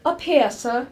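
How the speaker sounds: a polite call to a visitor below. Acted. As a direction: call him up from the landing. Calling visitor up the stairs.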